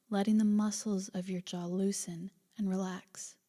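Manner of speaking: calm, unhurried body-scan guidance; guided meditation. Acted. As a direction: gently lead a listener into relaxation, leaving space between phrases.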